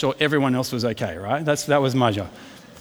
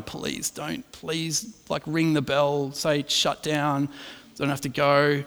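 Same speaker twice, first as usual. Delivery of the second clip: hushed, nervous begging under the breath; quiet pleading; 3 semitones lower, 6 dB quieter, slower than usual. Retold or imitated. Scared rider pleading quietly in the queue. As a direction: mutter a hopeful plea not to go. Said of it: "like, half going".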